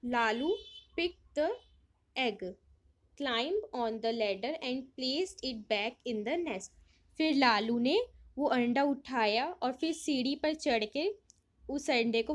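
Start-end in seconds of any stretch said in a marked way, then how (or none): 0.0-6.7 slow reading. Acted. Reads story line aloud in English.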